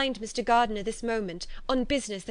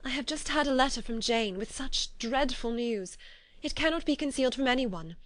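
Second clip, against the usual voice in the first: rising distress, high and louder toward the end; 5 semitones higher, 4 dB louder than usual. A narrator's reading. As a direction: pour out the dreadful news, voice climbing. Elizabeth confesses dreadful news.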